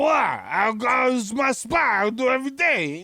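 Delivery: a hint of a hostile junkie; belligerent drunk. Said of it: "they get mad at you".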